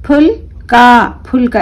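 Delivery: फुल and का said apart, then together; फुल का broken into its two syllables; split into halves. Shown as a demonstration. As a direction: sound it out in two parts. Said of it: "आधा आधा करके पढ़ेंगे इस तरीके से".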